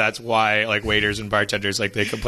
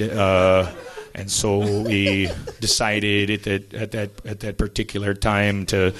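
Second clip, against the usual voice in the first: mock police testimony; 2 semitones lower than usual. Mocking a documentary police interview.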